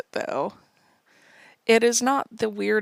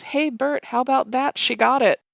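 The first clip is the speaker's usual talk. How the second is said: excited cheer; 4 semitones higher, 5 dB louder than usual. Retold or imitated. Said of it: "while Harry says".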